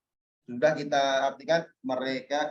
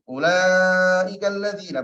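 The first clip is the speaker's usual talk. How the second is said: quick reading; 5 dB louder, slower than usual. Shown as a demonstration. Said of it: "berarti bacanya cepat".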